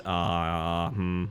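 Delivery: usual speaking voice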